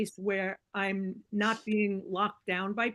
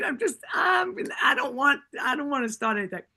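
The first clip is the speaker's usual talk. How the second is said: raised, louder flustered reenactment; flustered protest; 5 semitones higher, 4 dB louder than usual. Retold or imitated. Storyteller acting out her reluctance to start anything, flustered. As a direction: act out backing off, voice jumping up then settling. Voicing own hesitant protest.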